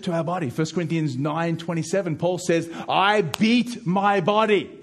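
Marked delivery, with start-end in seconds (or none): 2.9-4.7 raised, emphatic preacher's voice; preaching scripture. Acted. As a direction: declaim the verse, high and forceful.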